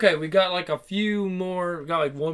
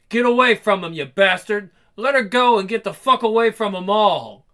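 angry command; 2 semitones higher, 4 dB louder than usual. Acted. Character intervenes against attacker.

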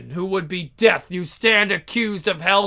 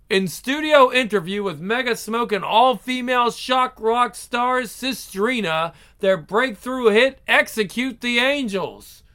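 higher TV host delivery; bright interviewer intro; announcer voice; 5 semitones higher than usual. Acted.

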